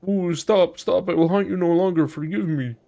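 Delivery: high, wailing mock plea; hammed-up cowering whine; pleading corpse. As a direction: beg for mercy as a beaten ghost. Corpse begs Marta to stop beating.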